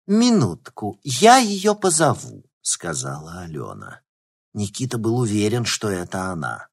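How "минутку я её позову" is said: high, put-on polite maid voice; servant voice. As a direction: play the housemaid calling her lady. Alyona pretends to be a servant.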